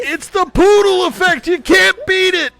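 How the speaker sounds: hammed-up YouTuber bragging about his hair; Jake Paul impression. Jake bragging about his poodle hair, high hammed-up boast. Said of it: "John, you're gonna play Jake".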